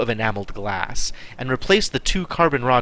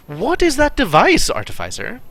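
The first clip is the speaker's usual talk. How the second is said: polite ask; 11 semitones higher than usual. Acted. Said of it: "I asked politely".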